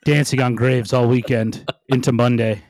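winded, catching his breath. Real, not acted. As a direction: talk between heavy breaths. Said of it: "Sorry, I'm out of breath".

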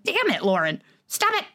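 a half-joking telling-off to yourself; mock self-scolding. To herself about ruining hobbies, mock scolding. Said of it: "And so it's like".

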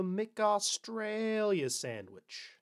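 drawn-out, badly faked Australian accent; hammed-up amateur Australian accent. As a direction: stretch the vowels in a clumsy Aussie imitation. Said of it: "that was a bad accent".

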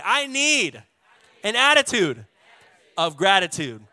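loud call-out, punching each phrase; the right way. Shown as a demonstration. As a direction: proclaim it loud to the whole church. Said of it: "No, let's say it the right way".

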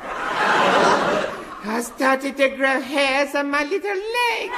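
put-on high, giddy little boy; squeaky kid character, gushing; childish high voice.

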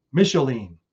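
"Micheline" said carefully as mish-oh-leen; careful name pronunciation. Real, not acted. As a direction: try out "Micheline" as mish-oh-leen, falling at the end. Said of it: "I hope I got that right".

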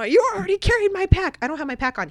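high and loud, a frantic protest; retold protest. Telling the guide he already carried her pack, high loud protest. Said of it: "You know".

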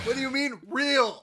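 very high-pitched incredulous question; mock disbelief. Repeats the incredulous challenge.

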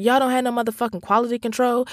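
fast, high-pitched retold rant; acting out an irate customer, rushed; indignant complaint. Customer telling off Burger King staff, indignant.

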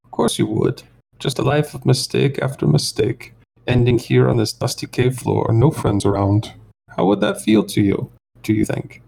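high, smug bounty hunter; whining alien voice. Acted. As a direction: gloat in a high whine. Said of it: "a high kind of whining voice".

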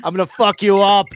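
high, threatening comic Scotsman; mock Scottish accent. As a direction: threaten in a hammed-up Scottish brogue. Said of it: "Scotland's great".

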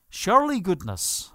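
a light Irish lilt on "Surely goodness"; gently Irish "Surely goodness", not overdone; Irish accent. Shown as a demonstration. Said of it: "as we say in the Irish accent".

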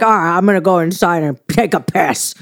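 imitated gruff New York sign-off; thick New York accent. Wife mimics husband stomping off inside, New York accent. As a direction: announce it like a fed-up New Yorker. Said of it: "His New York accent was so thick".

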